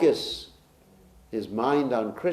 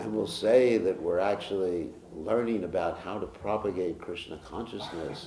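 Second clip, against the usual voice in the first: laughing through words. Retold or imitated. Mocking his own excuses.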